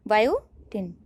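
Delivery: slow down on बायोटिन for students. Shown as a demonstration. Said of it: "क्या है, बायोटिन". (बायोटिन को धीमे दोहराते हुए)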